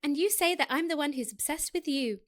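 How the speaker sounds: put-on lightly girlish character voice; girly accent. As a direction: give it a touch of girly lilt. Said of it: "to just a girly accent".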